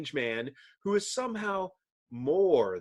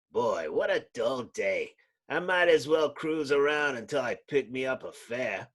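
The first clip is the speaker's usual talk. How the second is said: bored cabbie. Acted. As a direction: grumble like a weary cabbie. Cab driver voiced.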